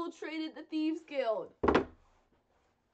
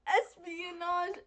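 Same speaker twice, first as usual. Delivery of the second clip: slowly sounding out Espionage syllable by syllable; drawn-out Espionage, each syllable spelled out; careful slow pronunciation; 5 semitones higher, 5 dB louder, much slower than usual. Shown as a demonstration. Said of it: "We even practiced the word".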